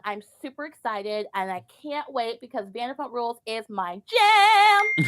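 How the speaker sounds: lightly voiced Valley Girl, upbeat; a hint of a bubbly Valley Girl gushing. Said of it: "I have to put my Valley Girl voice on".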